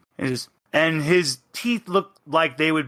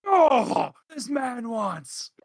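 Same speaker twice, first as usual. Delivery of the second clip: much higher delighted yelp that fades; excited squeal; 10 semitones higher, much slower than usual. Acted. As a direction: squeal like a thrilled kid. Fang delighted by possum blood.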